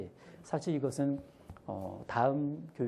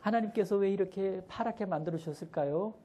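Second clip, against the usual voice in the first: put-on much higher curious child voice; higher little-child question; child asking; 8 semitones higher than usual. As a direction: ask the teacher like a little kid. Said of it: "아이가 먼저 물어봐요".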